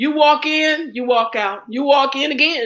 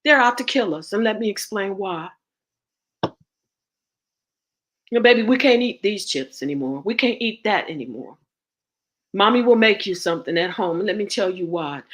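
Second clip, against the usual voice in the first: gentle mom voice; 6 semitones lower than usual. Retold or imitated. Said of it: "Just say".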